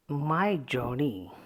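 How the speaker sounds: "my journey" drawn out slowly, stress on JOURNEY. Shown as a demonstration. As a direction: demonstrate "journey" as the stressed word after "my". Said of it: "Journey is to be studied".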